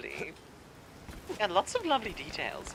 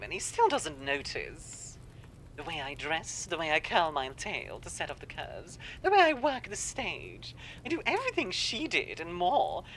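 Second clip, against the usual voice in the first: jealous showgirl monologue; 4 dB quieter than usual. Acted. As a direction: brood jealously over a rival. Voices a jealous character monologue.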